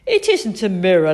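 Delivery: loud, tickled discovery; amused exclamation. A narrator's reading. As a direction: exclaim without really laughing. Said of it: "laughed Chip".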